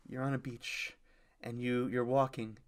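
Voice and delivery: mild, softly spoken meditation guide; guided meditation. Retold or imitated. Teacher talking a class through meditation, imitated softly. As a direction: gently talk them through a scene. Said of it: "just kinda talk you through".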